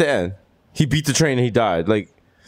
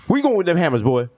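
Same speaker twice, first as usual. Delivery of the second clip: raised-pitch challenge to John Henry; mock confrontation; 7 semitones higher than usual. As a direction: call him out like an old film bully. Acting out racist confronting John Henry.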